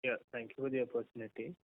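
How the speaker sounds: too quiet. Real, not acted. Caller thanking the hosts for the opportunity, too quietly. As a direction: speak well under normal volume. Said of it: "Can you speak a bit louder".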